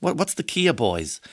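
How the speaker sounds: Kerry lilt with a touch of American, puzzled; a puzzled Kerry-American twang on "Kia boys"; Donie twang. Retold or imitated. Donie asking the cops, puzzled, in a Kerry-American twang. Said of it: "I'm doing my Donie twang".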